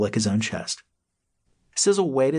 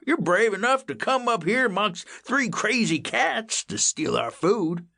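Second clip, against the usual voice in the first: slow drawl; 12 semitones higher, slower than usual. A narrator's reading. Old cat drawls.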